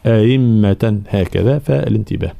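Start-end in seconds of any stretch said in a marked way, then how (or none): 0.1-1.0 أئمة with an eased second hamza and doubled meem; أئمة بالتسهيل; softened hamza. Shown as a demonstration. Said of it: "يسهل الثانية بلا إدخال".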